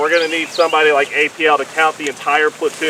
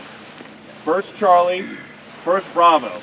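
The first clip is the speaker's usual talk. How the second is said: calling from far away; much slower than usual. Real, not acted. Calling out element names in field.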